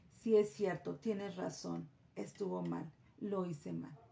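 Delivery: a mild hint of a child owning up; sheepish child. Child admitting a mistake to a parent, softly sheepish.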